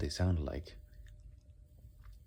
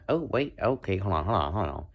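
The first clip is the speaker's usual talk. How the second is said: excited; 3 semitones higher, 4 dB louder than usual. Real, not acted. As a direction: jump up with a sudden idea. Excited realization.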